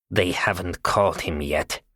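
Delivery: rough, gravelly and slow. A narrator's reading. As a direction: growl it out roughly, slowly. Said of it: "in her rough, gravelly voice".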